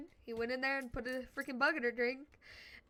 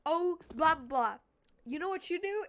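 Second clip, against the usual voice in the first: higher, louder mocking blah blah; mock teacher scold; 5 semitones higher, 7 dB louder than usual. Teacher nagging the sleeping student, mock loud and high.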